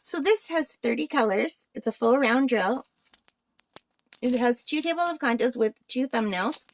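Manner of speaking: talking through the hiccups. Real, not acted. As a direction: hiccups breaking the words. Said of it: "I've got the hiccups".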